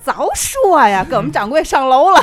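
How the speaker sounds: Tianjin dialect. Retelling a story, the speaker quotes the shopkeeper's reply in Tianjin dialect. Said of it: "这掌柜的就爆出天津话".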